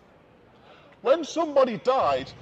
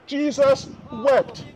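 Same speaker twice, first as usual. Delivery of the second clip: very slow, rising on Jesus; preacher repeating the verse, slowed right down; slow solemn repeat; 3 semitones higher, much slower than usual. Shown as a demonstration. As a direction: draw it out, reverent. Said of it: "so revealing".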